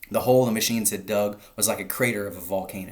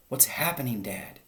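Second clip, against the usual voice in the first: frightened cry; 4 semitones higher, 4 dB quieter than usual. A narrator's reading. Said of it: "cried the smallest foxes".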